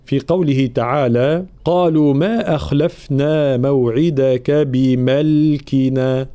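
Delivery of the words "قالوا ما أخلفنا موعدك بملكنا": slow Quran recitation with long vowels; ترتيل قرآني. Shown as a demonstration. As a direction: recite the verse in measured tajwid. (تلاوة مرتلة متأنية)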